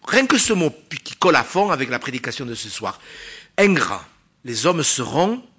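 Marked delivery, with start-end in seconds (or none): 3.6-4.1 Ingrats hit hard and loud, falling; emphatic ingrats. Acted. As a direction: pound out Ingrats like a verdict. Preacher hammers the key word.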